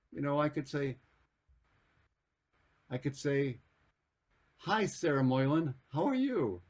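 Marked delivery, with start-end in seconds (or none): 4.6-6.6 friendly greeting. Acted. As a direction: greet an old friend by name, playfully.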